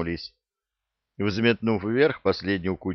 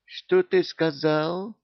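slow, higher, threatening question; menacing; 9 semitones higher, slower than usual. A narrator's reading. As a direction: let the threat hang slowly. Angry genie threatening.

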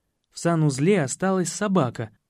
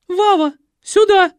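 very high, loud screaming call; wailing yell; 11 dB louder than usual. Acted. Николетта вопит, зовя сына — высокий истошный крик. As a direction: scream for him to come. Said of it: "завопила Николетта".

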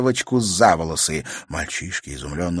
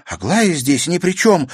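put-on higher, louder girl protesting hotly; heated exclaim; 10 semitones higher, 6 dB louder than usual. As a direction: burst out in her own defence. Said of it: "с жаром воскликнула Катерина".

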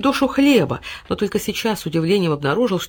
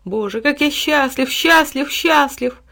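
high, slow, rapturous delight; overjoyed, voice lifted; joyful exclamation; 8 semitones higher, 4 dB louder, slower than usual. A narrator's reading. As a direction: revel in each repeated word. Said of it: "радостно воскликнул Тиль-Тиль".

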